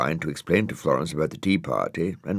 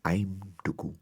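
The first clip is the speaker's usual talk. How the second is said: much softer, small admission; very quietly; 2 semitones higher, 8 dB quieter than usual. Acted. Dougal admitting to Florence, very quietly. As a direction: confess it under your breath. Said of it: "very quietly".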